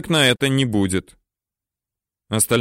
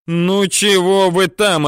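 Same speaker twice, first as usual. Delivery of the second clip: higher, slow shouted demand; impatient yell; 7 semitones higher, 4 dB louder, slower than usual. A narrator's reading. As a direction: hurry them up. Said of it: "орёт Теренчук".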